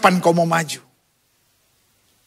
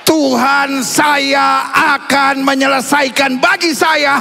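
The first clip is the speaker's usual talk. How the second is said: preached shout; 3 semitones higher, slower than usual. Shown as a demonstration. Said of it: "Sama-sama bilang".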